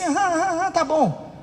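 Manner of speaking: mock half-listening uh-huhs; dismissive. Father answers his chattering child, dismissive. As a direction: brush the child off absently. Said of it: "o desprezo".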